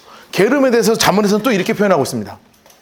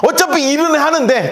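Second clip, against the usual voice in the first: normal talking voice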